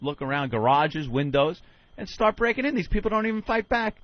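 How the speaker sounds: a lightly voiced scheming burglar; scheming crook. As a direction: plot like a lazy burglar. Voicing criminals' thinking.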